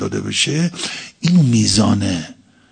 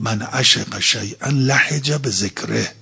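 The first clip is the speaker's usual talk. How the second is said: slow recitation; slower than usual. Acted. Preacher quotes Arabic hadith.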